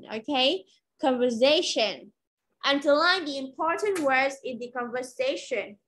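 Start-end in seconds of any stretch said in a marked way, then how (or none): 2.6-5.7 words linked in one smooth run; quick reading. Shown as a demonstration. Teacher showing learners the quick reading, connected and brisk. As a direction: read the whole sentence straight through. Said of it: "đọc nhanh sẽ là như thế".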